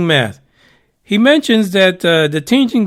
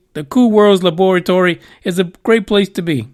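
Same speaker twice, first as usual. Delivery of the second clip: a faint hint of an Arnold Schwarzenegger accent; barely-there Arnold Austrian accent. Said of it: "I don't know why I'm saying it with an accent".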